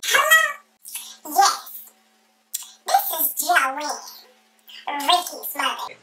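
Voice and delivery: high, put-on prim phone voice; mother on the phone. Mother introducing herself to grandma, high prim phone voice. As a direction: play the mother sweetly announcing herself. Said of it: "she calls my grandma anyway".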